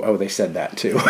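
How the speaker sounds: ordinary delivery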